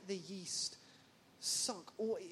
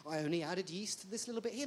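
mock offended; faster than usual. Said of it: "act shocked and offended".

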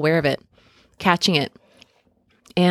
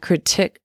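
"critic" drawn out slowly, stressed on its second syllable; slow down and misplace the stress in "critic" onto the last syllable; stress on wrong syllable. Real, not acted. Podcaster stumbling over "critic", stress on the wrong syllable. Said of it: "putting emphasis on the wrong syllable".

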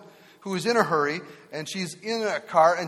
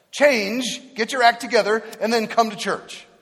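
louder, higher scolding demand; religious shepherd; 5 semitones higher, 6 dB louder than usual. Retold or imitated. The religious shepherd lectures the flock, loud and demanding. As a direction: bark orders at the sinner. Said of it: "that's the religious shepherd".

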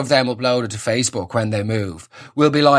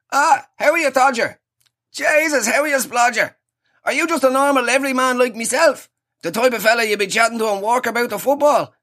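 hammed-up matey ad voice, much higher; cheesy radio ad bloke; 8 semitones higher than usual. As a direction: play the fake everyman from a radio ad, high and chummy. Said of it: "You know the ones".

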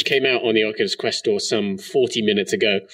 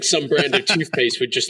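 usual speaking voice

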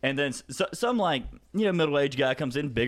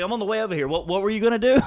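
higher, louder laughing dare; cocky challenge; 8 semitones higher, 6 dB louder, faster than usual. Retold or imitated. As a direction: egg him on while moving in. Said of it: "I was like".

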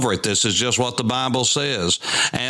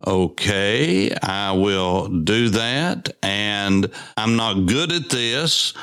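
lightly voiced Moses, lower and slow; a hint of a hesitant Moses, pitched down; reluctant Moses; 5 semitones lower, slower than usual. Moses answering God, unsure of himself, in a lower, slower voice. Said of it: "And Moses said".

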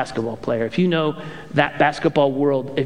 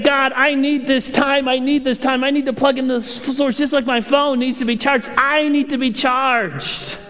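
earnest prayer; 7 semitones higher than usual. Retold or imitated. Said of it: "And it's saying".

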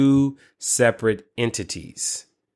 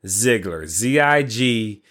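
slow, deliberate spelling; spelling it out slowly; slower than usual. Shown as a demonstration. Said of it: "Look him up".

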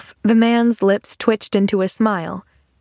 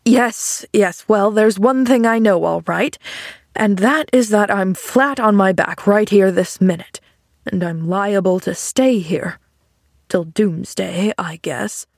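lightly voiced grumpy man; John Pendleton. Man flat on his back to girl, mildly grumpy. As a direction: grumble a little, like an irritable invalid.

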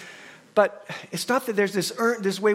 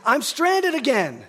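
raised-pitch, slow imitation of the wife; imitating the wife's stranded call; wife's repeated complaint; 7 semitones higher, 5 dB louder, slower than usual. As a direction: quote her plea, a little higher and stretched. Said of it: "she says".

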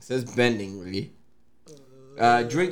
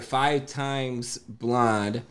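drawn-out beer name; slow announcer read; much slower than usual. Acted. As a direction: announce it slowly.

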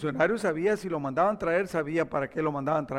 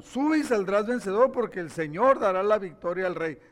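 mildly mocking encouragement; understated sarcastic echo; sarcasm; 3 dB louder than usual. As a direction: parrot the promise with a touch of mockery. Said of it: "le dice con sarcasmo".

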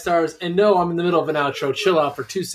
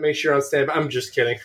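normal talking voice

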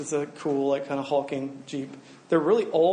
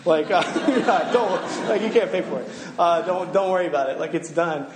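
laughing elder. Retold or imitated. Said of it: "He's like".

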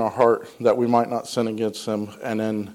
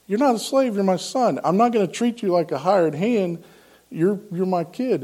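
lightly voiced insistent father, higher pitch; gently acted correction of a son, pitched up; father reassuring son; 6 semitones higher than usual. Father answering the returning prodigal.

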